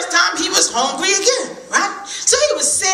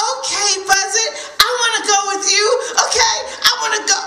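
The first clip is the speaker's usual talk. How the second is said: eager squirrel; 2 semitones higher than usual. Acted. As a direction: blurt it out like a thrilled kid. Excited squirrel.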